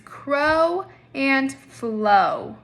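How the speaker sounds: careful teacher demo of crow and flow; slow demo words. Shown as a demonstration. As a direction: say each word slowly and clearly. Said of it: "Are we ready?".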